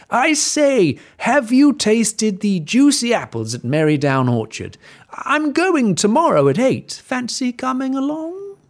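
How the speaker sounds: high, loud posh-sounding invite; wolf luring the pig, high and bright; sly wolf luring. Acted. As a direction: charm him into it.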